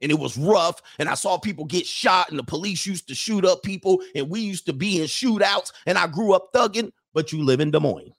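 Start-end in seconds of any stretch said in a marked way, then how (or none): 0.0-6.9 mock tough bragging.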